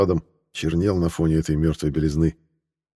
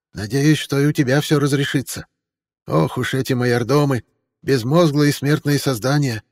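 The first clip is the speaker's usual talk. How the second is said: haughty countess voice; 7 semitones higher than usual. A narrator's reading. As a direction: sniff at mortal fools. Mariel voiced in the story.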